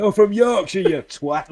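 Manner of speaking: a hammed-up outraged bellow; retold angry yell. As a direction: shout it back like a riled man from Yorkshire. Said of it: "turned around and went".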